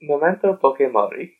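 a hint of an Italian accent. Co-host echoing the catchphrase back, light Italian accent. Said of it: "That was just an Italian accent".

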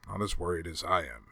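a private aside under the breath; to himself. A narrator's reading. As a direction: soldier muttering his own worry to himself. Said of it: "said Solid Snake to himself".

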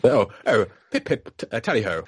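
put-on posh RAF pilot accent with a laugh. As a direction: toff British airman, tally ho. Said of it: "R A F pilot accent".

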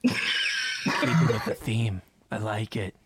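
whispering. Acted. Players whispering behind Haddock's back.

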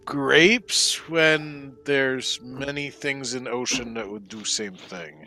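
very slow halting creature voice; slow broken speech. Acted. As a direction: pick each word out slowly.

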